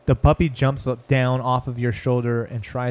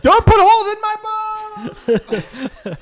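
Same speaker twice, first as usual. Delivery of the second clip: high laughing plea through giggles; laughing protest; 5 dB louder, faster than usual. Real, not acted. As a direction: laugh while begging them to stop.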